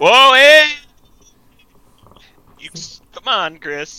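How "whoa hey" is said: high, loud drawn-out objection; loud protest. Real, not acted. Friend objects to being turned down, loud protest. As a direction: cry out in sudden protest.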